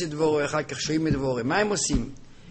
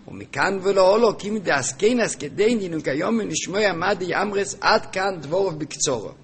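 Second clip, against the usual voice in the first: lilting recitation of a learned text; reading text aloud; 4 semitones higher, 6 dB louder than usual. Acted. Teacher reading Zohar commentary to students, lilting reading. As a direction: read the source out in measured, singing phrases.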